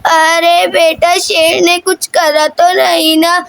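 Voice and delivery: slow, stretched opening in grandmother's voice; lightly voiced grandmother. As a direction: lightly play a concerned grandmother, unhurried. Grandmother figure asks child. (दादी की हल्की, धीमी आवाज़)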